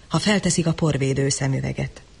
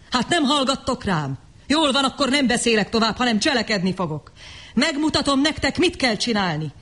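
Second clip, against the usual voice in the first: angry outburst; 6 semitones higher than usual. A narrator's reading. John rages at the crowd.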